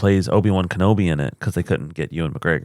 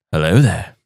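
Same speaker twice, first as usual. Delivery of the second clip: lower, lightly voiced Obi-Wan greeting; a half-successful British Obi-Wan attempt; Ewan McGregor; 4 semitones lower than usual. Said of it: "No, that wasn't as good".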